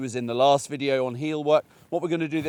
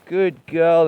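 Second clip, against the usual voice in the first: bright, louder praise for the dog; praising the dog; 8 dB louder than usual. Real, not acted. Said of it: "I'm just talking to her here".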